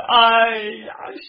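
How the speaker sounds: keen for the fallen brother; a hammed-up storyteller's lament; wailing grief. Brother wails for dead cousin.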